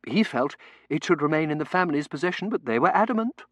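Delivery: high, projected clerical pronouncement; earnest churchman holding forth; pompous curate. Acted.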